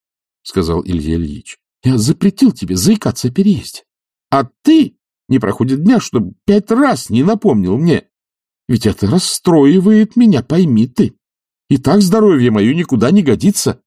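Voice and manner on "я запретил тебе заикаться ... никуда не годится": much higher, louder exasperated demand; indignant demand. Acted. Oblomov demanding an answer from Zakhar, loudly. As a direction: press him for an answer in outrage.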